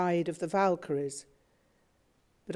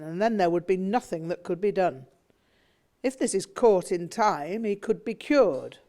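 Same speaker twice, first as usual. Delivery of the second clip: louder, forceful lecturing father; insistent, raised-voice argument about his son; rhetorical flight; 2 semitones higher, 5 dB louder than usual. Acted. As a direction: hold forth like a man sure he's right. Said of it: "My father was in full rhetorical flight".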